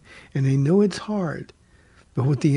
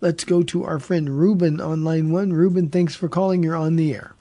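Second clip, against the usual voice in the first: radio announcer; 2 semitones higher than usual. Acted. Radio host welcomes listeners back.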